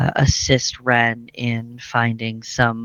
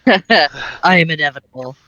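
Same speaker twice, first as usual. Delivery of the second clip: Batman voice; 7 dB louder than usual. Pretend. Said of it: "All Batman for some reason".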